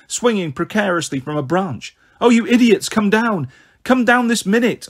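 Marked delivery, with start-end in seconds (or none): 2.2-4.9 high, urgent scolding shout; scolding call. A narrator's reading. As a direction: order the children down from below. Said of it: "I called".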